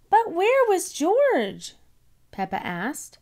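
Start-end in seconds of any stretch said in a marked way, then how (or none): 0.1-1.7 put-on high, slow little girl; stretched high questioning child; small child voice. A narrator's reading. Peppa asks about George.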